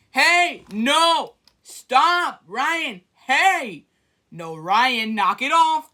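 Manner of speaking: startled friend yelling to stop the spray; real yelling. Real, not acted. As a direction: yell at him to stop now. Being sprayed, yelling at Ryan.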